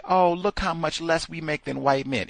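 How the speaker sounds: mocking whine. Mocking white women's claim.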